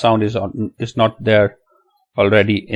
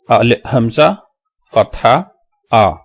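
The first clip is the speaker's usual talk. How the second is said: letter, sign, then sound, with pauses; spelling it out. Shown as a demonstration. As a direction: spell it piece by piece for learners. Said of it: "That's how you spell Hamza".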